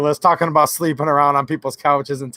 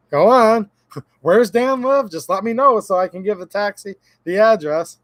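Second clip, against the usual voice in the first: eager mock send-off, pitched up at the start; imagined wife; 3 semitones higher than usual. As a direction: send him packing in a lightly mocked wife's voice. Imagines wife eagerly sending him off.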